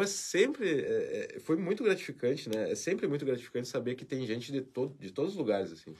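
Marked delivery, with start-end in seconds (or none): none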